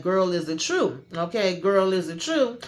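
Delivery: rising, pushy mock demand; hammed-up nagging girlfriend; badgering friend. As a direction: press her harder with each question.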